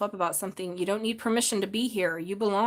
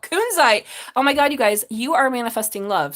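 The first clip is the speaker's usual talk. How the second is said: excited; 2 semitones higher, 6 dB louder than usual. Real, not acted. Crystal flies out of deck.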